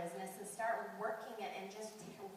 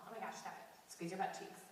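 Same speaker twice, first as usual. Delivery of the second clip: softer, holding back tears; fighting tears, talking herself steady; getting emotional; 6 dB quieter than usual. Real, not acted. Speaker to the audience, fighting back emotion, softer. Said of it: "I'm gonna get emotional".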